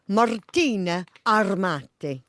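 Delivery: showy Italian accent, slightly off as "Armati"; learner's overdone Italian accent; attempted Italian accent. Shown as a demonstration. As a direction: present "Martina Armati" with an Italian flourish. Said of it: "trying to do it in an accent".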